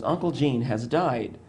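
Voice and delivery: slow, weighty announcement; emphatic. Retold or imitated. Stepfather announcing the death to him, slowly and emphatically. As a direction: lean on each word, grave and firm. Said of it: "He said it very emphatically".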